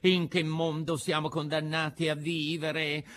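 high, theatrical fox lament, slowing at the end. A narrator's reading. Fox bewails the world to puppet, theatrical lament.

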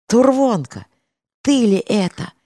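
high, loud astonished cry; amazed exclamation. A narrator's reading. Kirsha recognizes his old comrade, loud high astonished cry. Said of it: "изумлённо воскликнул Кирша".

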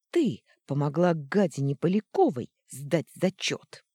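громкое обвинение; яростно обвиняй подругу; в ярости. Acted. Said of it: "Она в ярости ткнула". (яростно и громко)

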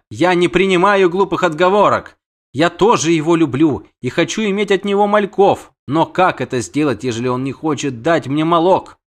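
high-voiced complaining siren; indignant siren. Siren rejects the witcher's excuses, indignant.

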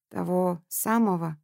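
slow, hushed, hoarse question. Acted. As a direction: rasp it out slowly. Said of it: "хрипло спросила".

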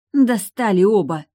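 loud, high exasperated outburst. Acted. Fed-up sister snapping at both patients, loud. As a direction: snap at both of them. Лой storms out.

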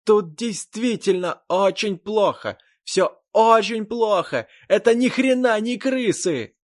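high, loud, slow panicked shout; frightened man yelling from the fog; terrified yelling. Acted. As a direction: scream it out in horror. Billy screaming from the fog.

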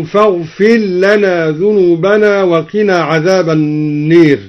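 فاغفر لنا with the ر merged into the ل, said فاغفلّنا; assimilate: فاغفر لنا as one run with doubled lām; rā' assimilated into lām. Shown as a demonstration. Teacher showing al-Duri's merging of rā' into lām, slow recitation. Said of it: "أدغم الدوري الراء".

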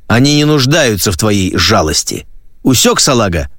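mocking, threatening sergeant voice; menacing drill sergeant. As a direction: taunt the recruit, pressing hard. (грозный сержант-инструктор)

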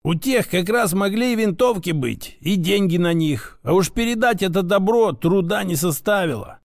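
a hint of an insistent old mentor; lightly voiced grandfather, insistent. Grandfather explains who shot his grandson, lightly voiced, insistent. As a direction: reason it through as a grandfather, lightly in character.

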